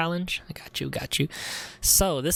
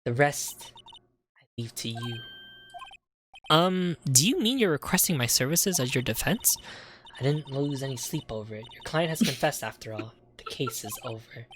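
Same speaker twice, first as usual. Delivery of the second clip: muffled and much softer, off mic; talking behind the mic; 4 dB quieter than usual. Real, not acted. A streamer reading lines from behind the mic, muffled. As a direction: speak from behind the microphone. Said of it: "I'm gonna talk, like, behind the mic".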